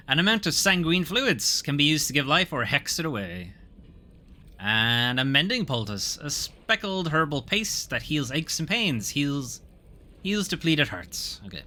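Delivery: story narration. Acted. Reading item and scene text.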